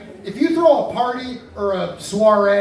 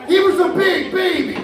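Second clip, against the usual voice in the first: Johnny Carson voice; 7 semitones higher than usual. Shown as a demonstration. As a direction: punch it like Carson. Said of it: "None of you watch Carson".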